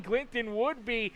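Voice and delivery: brisk play-by-play call; steady live sportscaster read; race commentary. Acted.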